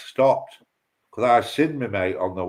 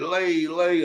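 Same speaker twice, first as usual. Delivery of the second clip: higher, drawn-out call for a mate; retold calling out; 4 semitones higher than usual. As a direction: stretch the name as if calling him over.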